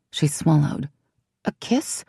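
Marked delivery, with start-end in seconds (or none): 1.4-2.0 high, breathy whispered question; startled whisper. A narrator's reading. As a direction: gasp it back in a whisper.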